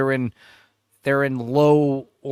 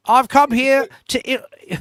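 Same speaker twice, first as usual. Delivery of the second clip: slow, higher, louder mock presenter voice; slow hammed-up host opener; 9 semitones higher, 5 dB louder, slower than usual. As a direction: ham up the host's dramatic intro. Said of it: "You know what I'm doing?".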